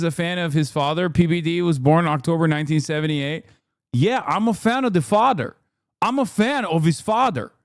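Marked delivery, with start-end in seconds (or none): 3.9-7.5 mimicking Patrick's accent. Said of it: "reference what he says".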